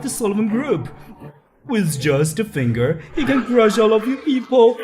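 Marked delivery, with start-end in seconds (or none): 3.1-4.8 gloating laugh. Acted. Gloating about the group's boss.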